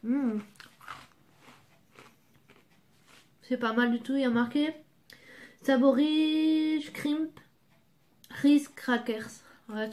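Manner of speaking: chewing while talking; speaking between bites; mouth full. Real, not acted. Seen 0: bites cracker at -3, chews with closed mouth, holds piece throughout.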